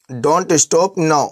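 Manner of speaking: very slow, every word spelled out; slow clear gloss. Shown as a demonstration. Teacher glossing for students, very slow and deliberate. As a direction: say it slowly for learners. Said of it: "teacher glosses phrase for learners".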